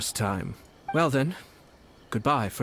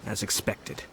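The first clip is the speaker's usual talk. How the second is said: quiet laugh; 6 dB quieter than usual. Acted. Villain amused by his plan.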